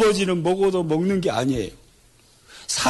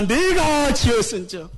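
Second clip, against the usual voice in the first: call and response line; 3 semitones higher than usual. Shown as a demonstration. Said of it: "따라서 해봅니다".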